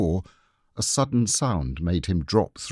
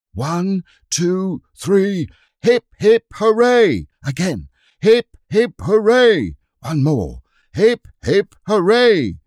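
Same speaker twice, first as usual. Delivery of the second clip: very loud, high hip hip hooray; a boy shouting a triumphant three cheers; leading cheers; 11 semitones higher, 8 dB louder, slower than usual. Acted. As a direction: lead the crowd in a rousing cheer. Leading cheers against the attackers.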